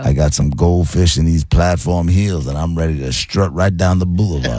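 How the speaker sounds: lightly voiced disco dude with swagger; a hint of seventies strut; disco smooth talker. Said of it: "Mister Disco".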